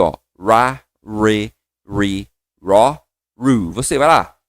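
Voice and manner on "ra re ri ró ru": Ra, re, ri, ró, ru lower with a fuller rounded R; full English R. Shown as a demonstration. Teacher demonstrates the fuller English R to students. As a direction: fill the R out, ra re ri ro ru. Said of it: "Ele é mais cheio".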